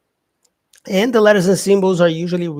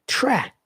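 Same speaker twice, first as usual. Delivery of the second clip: "tra" pitched high, set apart on its own; stressed syllable; 8 semitones higher than usual. Shown as a demonstration. Teacher isolating the first syllable of travel, stressed "tra". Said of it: "tra is stressed".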